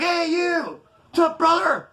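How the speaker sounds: high, hearty shout of recognition; big homeboy greeting. Retold or imitated. Ex-con greets an old cellmate, loud and friendly. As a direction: boom out a buddy's hello. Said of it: "he's like".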